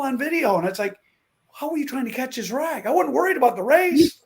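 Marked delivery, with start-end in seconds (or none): 1.5-4.2 mock cocky racer. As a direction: ham up the carefree driver bragging. Mocking his own racing attitude.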